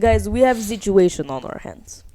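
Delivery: grave, measured announcement; serious scientist voice. Retold or imitated. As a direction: say it like a worried lead scientist. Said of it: "Oh, that was good".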